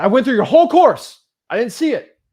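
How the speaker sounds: retold student protest.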